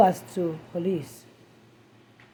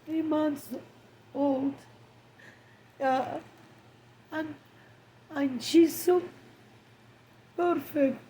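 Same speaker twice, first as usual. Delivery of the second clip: grief-stricken, rising; 4 semitones higher than usual. Real, not acted. Grieving mother after daughter's death.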